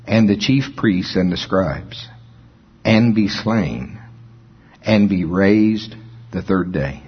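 slow, measured reading of the verses; scripture reading. Acted. Preacher reading Luke to the congregation, measured. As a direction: read the text with weight.

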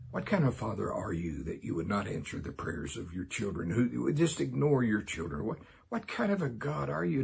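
mildly acted accusation, rising in pitch; accusing God. Movie character alone in church challenging God, accusing. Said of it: "this man basically is in church accusing God".

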